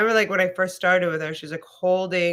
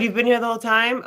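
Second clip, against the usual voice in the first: louder, higher, quick delighted question; pleased surprise; 4 semitones higher, 4 dB louder, much faster than usual. Real, not acted. Teacher learns the student stayed all class, delighted. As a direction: react with glad surprise. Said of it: "Oh, good".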